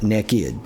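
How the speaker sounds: NAKED said as NEKKID; slow Southern naked, NEK-kid; Southern pronunciation. Shown as a demonstration. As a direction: draw naked out slowly with a short E. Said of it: "welcome to the South".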